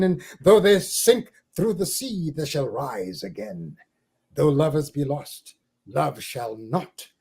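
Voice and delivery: slow, solemn poetry reading with big swells; poem recitation. Acted. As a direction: read it like a poet on a stage. Recites Dylan Thomas poem aloud.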